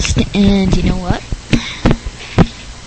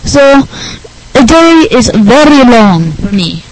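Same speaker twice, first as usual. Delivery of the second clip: lightly voiced goofy nerd; a hint of earnest nerdy explaining; Rick Berner; 2 semitones higher than usual. Nerd guest explains his homework habit, goofy voice.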